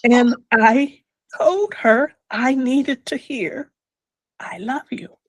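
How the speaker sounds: real tears held back, whispering the last words; holding back tears. Real, not acted. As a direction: fight the crying as you say it. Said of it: "I don't wanna cry".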